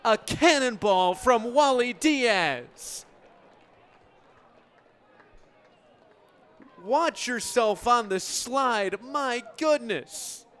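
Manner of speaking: loud, high, slowed home run call; big booming ballpark call. Acted. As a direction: let the cannonball fly with the voice.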